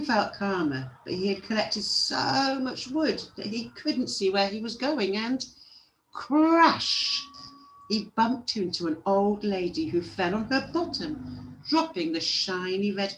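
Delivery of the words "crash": high, loud drawn-out exclamation; sudden storybook sound-effect word; dramatic crash. A narrator's reading. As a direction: burst out with it like a collision. Narrator voices the collision.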